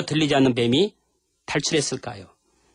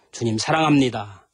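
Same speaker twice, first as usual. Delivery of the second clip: tender confession; 3 semitones lower than usual. Shown as a demonstration. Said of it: "주님 사랑합니다"라고 고백 좀".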